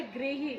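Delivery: "गृही" को ग्रीही बोलें; री sound demo. Shown as a demonstration. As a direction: say "गृही" as grihi, with a clear ri. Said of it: "इसकी sound क्या है?". ("गृही" में री की आवाज़)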